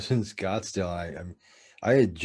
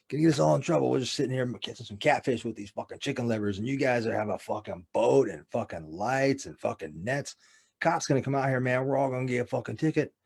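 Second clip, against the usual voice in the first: lightly voiced grumbling old fishermen, a bit higher; imitated old men scolding; 4 semitones higher than usual. Old men fishing catfish warn about cops, mock scolding. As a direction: complain like worried park regulars. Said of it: "they're old black dudes, and they'd be like".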